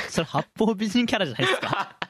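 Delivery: laughing through a teasing remark. Real, not acted. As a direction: giggle while teasing. Teasing host laughs while calling out.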